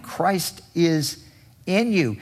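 in lifted high, you after it; stress on in. Shown as a demonstration. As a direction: make in the key word of Christ is in you. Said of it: "that's the second point".

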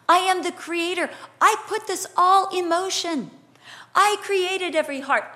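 divine declaration. Acted. God declaring himself creator, emphatic proclamation. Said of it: "And he says".

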